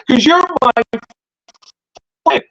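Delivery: high pleading plea. Retold or imitated. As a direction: whimper it out as a friend.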